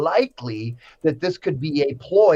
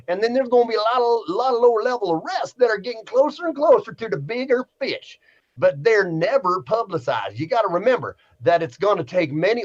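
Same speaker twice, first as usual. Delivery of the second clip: put-on Southern accent, pitched a little higher; lightly hammed-up Southern accent; 5 semitones higher than usual. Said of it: "I gotta throw an accent on this one".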